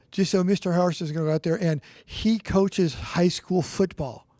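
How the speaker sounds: teacher addressing class. Retold or imitated. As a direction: imitate a teacher announcing to pupils. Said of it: "And she says, "Hey, class".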